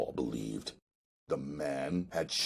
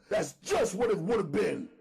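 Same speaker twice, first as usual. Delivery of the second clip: a higher, streetwise first-person telling; hustler narrator voice. A narrator's reading. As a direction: read the diary as the cool hustler himself. Diary read as the hustler narrator.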